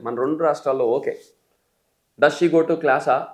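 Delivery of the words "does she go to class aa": class-ఆ with an added long "aa"; slow question ending on class-ఆ in "aa"; Telugu-style question. Shown as a demonstration. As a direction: rise onto an extra "aa" after class-ఆ. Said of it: "అనుకోపోయినా".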